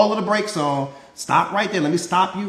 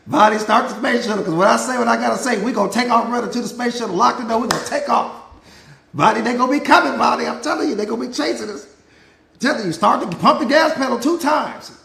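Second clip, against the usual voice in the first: louder, quick, hammed-up panic; mock urgent getaway; 3 semitones higher, 4 dB louder than usual. Coach urging Vonnie to start the shuttle, mock-frantic. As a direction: rush her like you're fleeing a crowd. Pretend escape in space shuttle.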